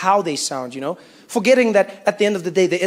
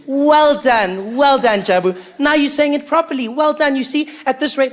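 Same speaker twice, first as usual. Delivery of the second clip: patronising praise; 5 semitones higher than usual. Acted. Coach praising Jabu after correction.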